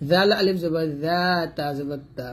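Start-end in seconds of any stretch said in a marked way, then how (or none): 0.1-1.2 "জা" as a thin th, tongue tip at upper teeth; thin dhal. Shown as a demonstration. Teacher demonstrates the thin letter, dental "জা". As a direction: keep the first sound of "জাল" light and dental. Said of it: "জালটা পাতলা করে উচ্চারণ করবেন".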